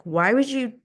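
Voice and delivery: retold angry challenge to a friend; heated confrontation. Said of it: "I confronted him".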